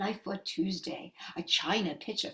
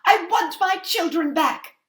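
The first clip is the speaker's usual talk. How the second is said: high and loud demand; insist, unwilling to leave; 7 semitones higher, 9 dB louder than usual. Acted. Mother demanding her children from the witch, loudly.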